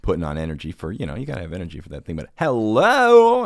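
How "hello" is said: very high, loud, very slow hello; husband mimicking his wife's hello; trainer hello impression. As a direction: stretch the hello up high like a sing-song greeting. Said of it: "that hello is the first one".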